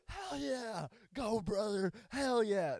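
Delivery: high, loud mock cheering; joking hammed-up hell yeah; sarcastic cheer. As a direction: yell along just to mock him. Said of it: "sarcastically and jokingly, like, screamed out".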